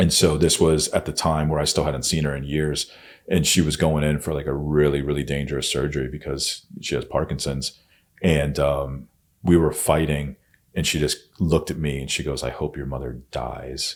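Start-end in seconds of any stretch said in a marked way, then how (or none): 12.4-14.0 evil, cruel, low, hushed taunting tone. Retelling what she said to you during a fight, imitating a cruel, evil tone. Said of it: "it's this cruel".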